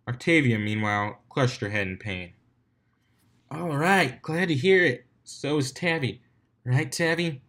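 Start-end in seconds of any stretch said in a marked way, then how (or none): 3.5-7.4 higher hype-host voice. Acted. DJ announcing to the crowd, playful. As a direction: tease the hungover friend to the crowd.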